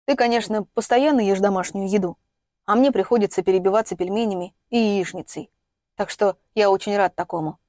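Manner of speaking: ordinary delivery, nothing marked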